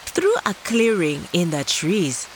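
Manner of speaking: gentle storybook narration; calm storytelling for kids; reading to children. A narrator's reading.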